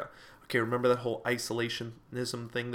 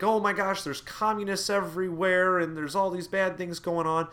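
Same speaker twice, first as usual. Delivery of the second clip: higher-pitched imitated public alarm; mock panic; 5 semitones higher than usual. Americans seeing communists everywhere, lightly acted mock panic. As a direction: fret aloud like a worried public.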